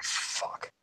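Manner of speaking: retold curse under the breath; dismayed whisper. Two buddies spotting a gaggle of privates, whispered dismay. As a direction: whisper it to your buddy in dread.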